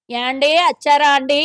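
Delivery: mock Kakinada accent. Politician mocks the Andhra accent for the interviewer, mock Kakinada accent. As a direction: lightly tease the coastal Andhra way of speaking. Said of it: "Kakinada side పోతే ఇంకో యాస ఉంటది".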